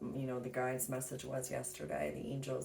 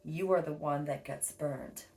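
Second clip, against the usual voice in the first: reading aloud; 3 dB louder than usual. Acted. Reads a quote from a book.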